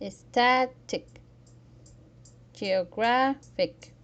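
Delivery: "static", "geographic", loud on "sta" and "graph"; "static", "geographic", emphatic next-to-last syllable; second-to-last syllable stress. Shown as a demonstration. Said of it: "Stress the second to last syllable".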